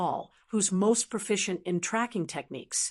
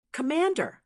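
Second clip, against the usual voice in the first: mild, understated shout of complaint; dissatisfied shout; 6 semitones higher than usual. A narrator's reading. Ma Kuan protesting to his commander, mild dissatisfied shout. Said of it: "Ma Kuan shouted in dissatisfaction".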